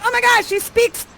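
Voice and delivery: high-pitched gushing amazement; hammed-up smitten astonishment; astonished excitement. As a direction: gush in mock disbelief, voice shot up high. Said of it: "You're like".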